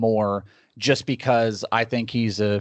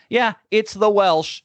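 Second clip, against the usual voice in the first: mock proud; 10 semitones higher, slower than usual. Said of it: "I was just like".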